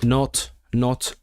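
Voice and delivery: slow, careful decoding of not on; puzzling it out slowly; slow sounding out. Real, not acted. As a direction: spell it out word by word. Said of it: "sounding out the spelling".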